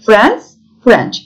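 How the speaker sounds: France rising, then French falling; careful pronunciation model. Shown as a demonstration. Teacher modelling France and French for learners, careful pronunciation. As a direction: say France, pause, then French, each distinct. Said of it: "Telaffuzlara dikkat ederek".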